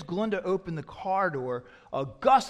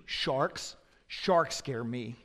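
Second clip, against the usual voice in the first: put-on child's fearful confession; 6 semitones lower, 6 dB quieter, much slower than usual. Voicing a second child's fear.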